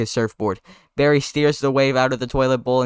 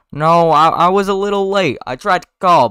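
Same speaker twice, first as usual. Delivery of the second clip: higher, louder, flustered excuse; acted flustered explanation, pitched up; 6 semitones higher, 6 dB louder than usual. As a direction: blurt out a defensive excuse. Flustered excuse voiced in script.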